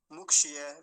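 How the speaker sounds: मुक्षीय rushed as muk-shi-ye, loud; hasty short i. Shown as a demonstration. Teacher showing a common mistake, hasty short i. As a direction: hurry through मुक्षीय with a short i. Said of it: "जल्दी से बोल देते हैं".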